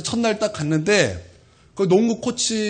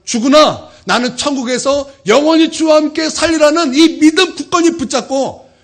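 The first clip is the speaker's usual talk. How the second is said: high, loud, impassioned sermon delivery; forceful preaching; 6 semitones higher, 7 dB louder than usual. Acted. Pastor extols martyrs' faith to congregation, preaching forcefully. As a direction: proclaim the faith at full force.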